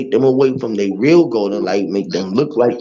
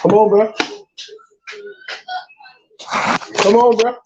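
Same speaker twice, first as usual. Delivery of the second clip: teasing call-out; 12 semitones higher than usual. Real, not acted. Taunting someone to play.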